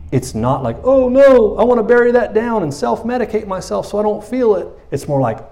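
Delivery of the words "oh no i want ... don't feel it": high-pitched, hammed-up alarm, loud at first; mock panic. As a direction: cry out in pretend dismay, then keep it high. Acting the panicked reaction to pain.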